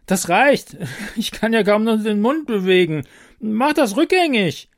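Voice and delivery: high, loud panicked pleading; frantic, barely moving the mouth. Acted. Brigitte panics, face stiff.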